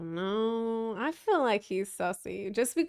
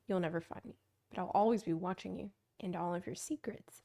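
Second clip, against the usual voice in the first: menacing letter reading. Acted. Reading a blackmail letter aloud to Cyrus, mock sinister. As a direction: read it like a hammed-up anonymous blackmailer.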